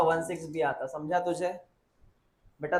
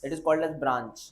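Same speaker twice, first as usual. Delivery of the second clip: slow dictation; 3 semitones lower, much slower than usual. Shown as a demonstration. Teacher dictating key term.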